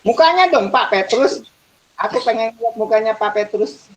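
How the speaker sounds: high-pitched playful request; coaxing. Real, not acted. Dosen membujuk mahasiswa menyalakan kamera. (membujuk dengan nada tinggi)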